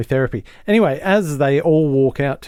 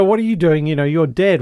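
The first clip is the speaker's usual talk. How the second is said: higher, louder incredulous questioning; retold disbelief, pitched up; mock astonishment; 4 semitones higher, 4 dB louder than usual. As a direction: imitate shocked people confronting someone. Retold group confronts man thought dead.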